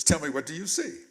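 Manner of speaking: loud, insistent demand, retold; mock-harsh questioning, rising at the end; harsh mother. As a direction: imitate a stern mother pressing for an answer. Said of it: "she's talking harshly at me".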